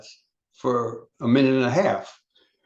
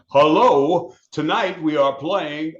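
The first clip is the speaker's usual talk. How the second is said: loud, slow stage announcement; announcer voice; 3 semitones higher, 5 dB louder, slower than usual. Retold or imitated. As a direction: announce it like an emcee. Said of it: "you sound like an announcer".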